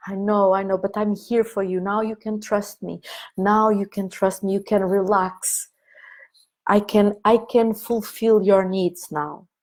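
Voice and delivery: put-on gentle promise to the inner child; tender comfort. Shown as a demonstration. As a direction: soothe the child you're holding. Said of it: "whatever you want to say".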